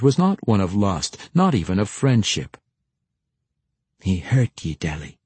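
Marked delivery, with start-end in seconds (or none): 4.0-5.2 gently consoling, falling away at the end; quiet and comforting. A narrator's reading. Josie consoling the sobbing Deli, quiet and comforting. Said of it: "Josie remarked quietly and comfortingly".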